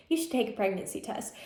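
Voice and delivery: a small voice in her head, said softly; little inner voice. Retold or imitated. Voice in her head urging a test, said quietly. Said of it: "heard a little voice in my head saying".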